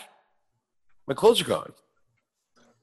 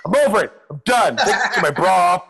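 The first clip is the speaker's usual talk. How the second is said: weary stripper. Retold or imitated. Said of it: "I feel like a stripper".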